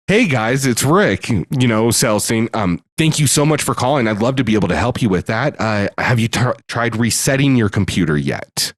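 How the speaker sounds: polite sales-rep phone voice; chirpy helpful call-center manner; customer service voice. Shown as a demonstration. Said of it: "Okay, work voice".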